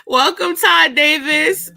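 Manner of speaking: drawn-out showbiz welcome; mock host welcome. Shown as a demonstration. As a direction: greet him like a talk show host. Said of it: "Oh, hold on".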